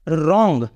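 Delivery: रॉन्ग with the W silent, starting on R. Shown as a demonstration. Teacher showing how wrong is said, रॉन्ग with silent W. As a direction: say रॉन्ग beginning straight on the R sound. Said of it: "इसलिए इसको हम बोलेंगे".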